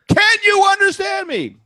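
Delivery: high, slow, over-pronounced question to a foreigner; mock American tourist abroad; loud slow American tourist. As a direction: speak slowly as if to someone who doesn't understand. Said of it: "an American speaks to someone in a foreign country".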